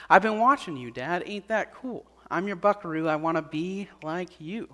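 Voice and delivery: gently retold child's answer, softening toward the end; a hint of a sincere kid, in the teller's own pitch; admiring young son. Son answers his praying father's question at bedtime, lightly voiced and gentle.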